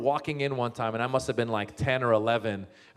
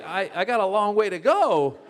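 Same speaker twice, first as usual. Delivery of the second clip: higher-pitched comic protest; mock protest; 7 semitones higher, 4 dB louder than usual. To his manager suggesting a book, high mock protest. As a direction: push it up high in exaggerated objection.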